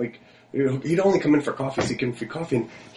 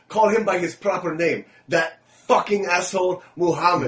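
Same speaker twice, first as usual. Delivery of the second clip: slow, higher-pitched imitation of a mechanic; Jacob; 5 semitones higher, slower than usual. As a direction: lightly mimic an emphatic mechanic, drawing it out. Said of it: "these are his words, not mine".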